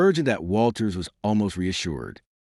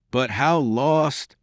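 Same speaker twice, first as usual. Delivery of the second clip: cried out; 5 semitones higher, much slower than usual. Acted. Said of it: "he cried a moment later".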